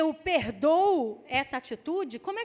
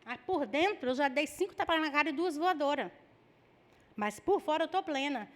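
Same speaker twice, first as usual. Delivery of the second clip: mock calm. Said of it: "Porque eu falo assim".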